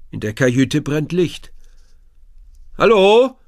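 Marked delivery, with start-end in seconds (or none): 2.8-3.4 loud, high rising call; a boy calling tentatively toward a lit cabin. A narrator's reading. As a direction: call into the harbour, unsure anyone's there. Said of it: "ruft Lukas".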